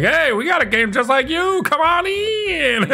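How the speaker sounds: inviting rival dev voice. Retold or imitated. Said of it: "was like".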